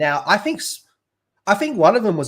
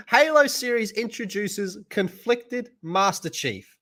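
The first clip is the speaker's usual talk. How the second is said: reading while laughing; 7 semitones higher, slower than usual. Shown as a demonstration. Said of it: "let me read that again out loud".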